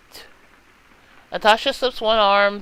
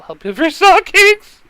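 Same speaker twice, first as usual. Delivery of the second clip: higher, louder, laughing through it; 12 semitones higher, 10 dB louder than usual. Acted. Natasha laughing about God helping with stockings. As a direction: burst into laughter mid-line.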